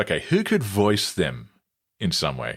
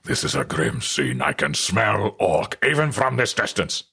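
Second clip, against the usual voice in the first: gruff dwarf warrior voice; Gimli. Shown as a demonstration. Voice actor imitating the Lord of the Rings dwarf, gruff. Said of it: "Gimli from Lord of the Rings".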